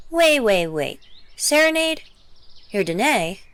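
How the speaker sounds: high, startled disbelief; surprised. Acted. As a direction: catch the name in sudden shock. Shocked realization of identity.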